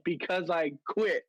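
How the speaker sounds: slow, deadpan quitting line; slow matter-of-fact reply. Retold or imitated. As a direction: drop it flat and slow. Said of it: "I was like".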